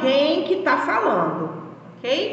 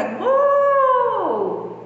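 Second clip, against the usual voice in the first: shouted goal; 10 semitones higher than usual. Shown as a demonstration. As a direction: celebrate a goal with "Gol!". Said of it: "você grita".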